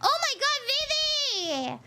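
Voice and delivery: high, gasping exclamation; delighted surprise. Real, not acted. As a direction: squeal the name out in amazement. Surprised by Vivi after a gasp.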